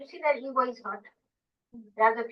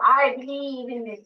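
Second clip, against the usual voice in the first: slow mock quote; slower than usual. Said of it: "They say".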